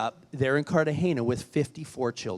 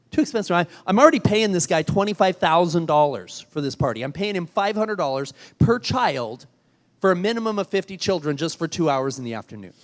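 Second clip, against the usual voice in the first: indignant anger; 3 semitones higher, 4 dB louder than usual. Retold or imitated. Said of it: "I was legitimately pissed".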